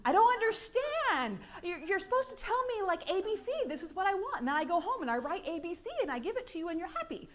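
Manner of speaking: exasperated. Retold or imitated. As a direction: play the confused writer begging for clear rules. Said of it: "I'm like".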